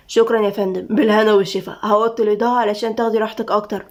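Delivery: courteous, restrained reassurance; deferential guard Tamim. Acted. Guard handing the lady her pizza, deferential. Narrator voices Tamim declining.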